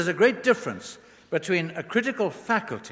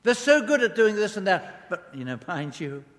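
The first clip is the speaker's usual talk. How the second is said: downgrading praise; 4 semitones higher than usual. Acted. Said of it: "that downgrades them".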